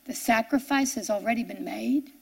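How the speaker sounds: "sacrifice" taken softly, lifting into a question at the end; stunned echo. Retold or imitated. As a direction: repeat it in disbelief, quiet and wondering. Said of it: "I stood there in shock".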